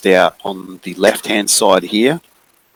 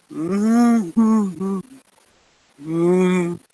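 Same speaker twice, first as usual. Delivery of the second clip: frightened whimper; 11 semitones higher, 3 dB quieter, much slower than usual. Acted. Scared little girl whimpers.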